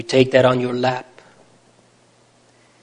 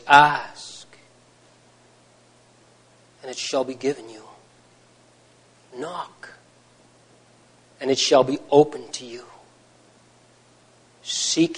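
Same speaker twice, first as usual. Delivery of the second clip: gentle quoting. Retold or imitated. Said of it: "so gently, he says".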